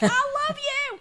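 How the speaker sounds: hammed-up impersonation with a laugh behind it; a singer's speaking voice. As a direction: gush it in a silly high voice. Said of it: "her speaking voice doesn't obviously match her singing voice".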